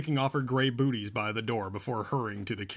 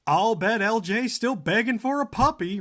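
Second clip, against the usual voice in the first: laughing; 8 semitones higher, 5 dB louder than usual. Acted. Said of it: "Randy laughed".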